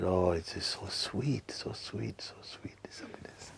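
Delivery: slow, fading into a whisper; blissful murmur fading. Retold or imitated. Alone in the dark flat, savouring happiness as it fades to a whisper. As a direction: let the sweetness melt away into breath. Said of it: "I said".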